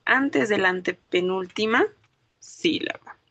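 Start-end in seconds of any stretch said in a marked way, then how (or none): none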